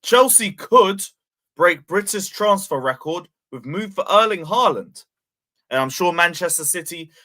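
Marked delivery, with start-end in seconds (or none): 0.0-5.0 sarcastic fake exclusive; mock headline read. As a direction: parody tabloid exclusive, Chelsea could stretched. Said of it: "I can make a very similar, article".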